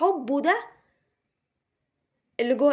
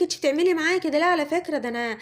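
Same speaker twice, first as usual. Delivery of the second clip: reproachful complaint; 3 semitones higher than usual. Retold or imitated. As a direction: rattle off his grievance, imitating him. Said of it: "بيقولك".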